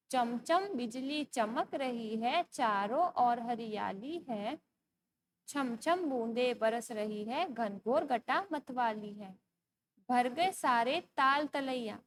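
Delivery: slow, measured verse reading; poem recitation. Acted. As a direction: recite line by line, stretching the words. (धीमी लय में कविता पाठ)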